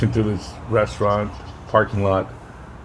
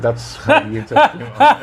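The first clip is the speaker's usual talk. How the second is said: squeaky, giggling high voice; laughing high voice; 14 semitones higher, 3 dB louder than usual. Retold or imitated. Teasing her daughter, laughing high. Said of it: "I said".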